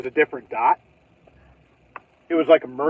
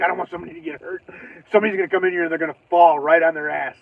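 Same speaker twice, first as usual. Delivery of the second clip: fast, rushed muttering worry; hurried worry; faster than usual. Retold or imitated. Wiping the floor, fast worried muttering. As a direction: rattle it off quickly while wiping up. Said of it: "I'm like".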